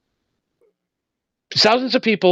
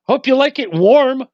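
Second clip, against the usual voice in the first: a priest telling a mobster he's going to hell, hammed-up higher gloat; gleeful priest; 8 semitones higher than usual. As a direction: relish damning him. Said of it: "He goes".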